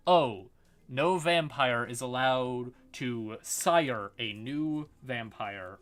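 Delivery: hammed-up royal proclamation; mock decree. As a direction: announce it like a pompous edict. Quoting a prince's decree.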